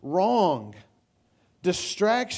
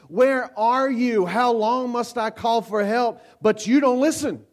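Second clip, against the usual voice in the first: higher and louder, a frustrated plea to God; frustrated cry; 4 semitones higher, 3 dB louder than usual. Acted. Pastor voices Habakkuk's frustration to the church, raised and pleading. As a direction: cry out like a prophet fed up with waiting. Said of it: "Can you hear the frustration in Habakkuk's voice?".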